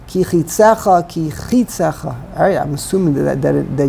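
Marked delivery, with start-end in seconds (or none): 0.1-2.4 chitzecha with the first syllable, chi, stressed. Shown as a demonstration. Teacher showing where the accent falls, stress on the chi of chitzecha. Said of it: "you put the emphasis on the ches".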